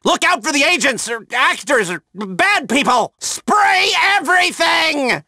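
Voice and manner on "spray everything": slow, high emphatic yell; shouted order. Acted. Handler ordering the crew to spray, slow shout. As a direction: hammer the command home. Directing team at the fire.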